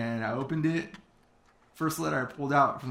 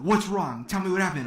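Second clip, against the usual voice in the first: higher, louder imitation of alarm; retold freak-out; 5 semitones higher, 4 dB louder than usual. Mentor demanding news from his caller, mock freak-out. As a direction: urgently demand news, mildly panicked. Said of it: "like, freaking out".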